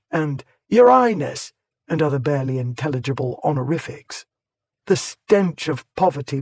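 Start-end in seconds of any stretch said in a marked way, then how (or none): 0.7-1.5 high, loud shouted cry. A narrator's reading. Someone in the crowd crying out, loud and high. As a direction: call it out over the mob. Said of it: "took up the cry".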